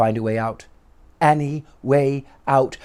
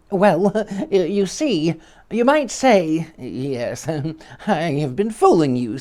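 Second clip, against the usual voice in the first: higher, hesitant little man with a nervous laugh; shy squeaky stammer; 3 semitones higher than usual. Acted. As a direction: stumble over the words, bashful. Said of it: "stammered the little man in a shy, squeaky voice".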